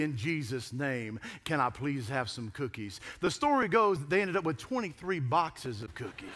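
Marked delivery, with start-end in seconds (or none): 0.0-3.0 much lower, softer quiet echo; soft retelling of the plea. Retold or imitated. Preacher echoing the boy's plea softly, hushed. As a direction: let the plea fall hushed. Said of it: "heard this young man's plea".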